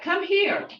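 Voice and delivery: a sharp "Come here." called out high; command. Retold or imitated. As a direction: call the child over firmly. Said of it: "that's a command".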